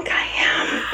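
flustered, overheated whisper; breathless from a hot flash. Real, not acted. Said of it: "having a hot flash right now".

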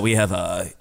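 a hint of an astronaut radioing Houston; lightly voiced astronaut reporting a problem; mock mission control. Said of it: "We have a Houston, we have a problem".

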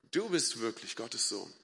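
quiet, awed confession; hushed awe. A narrator's reading. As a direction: say it almost to yourself in wonder. Worshippers' awed words, read out softly.

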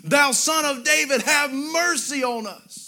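measured preacher's mock cry, stretched at the end; retold crying out. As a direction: call it out like a preacher quoting a plea. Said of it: "they cried out with a loud voice".

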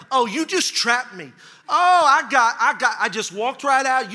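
mock outrage at being trapped; re-enacted indignation. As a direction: replay being mad, in lively exasperation. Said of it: "now I'm really mad".

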